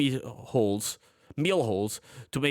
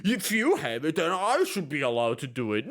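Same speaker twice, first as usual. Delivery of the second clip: mocking quote; 4 semitones higher than usual. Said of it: "They go".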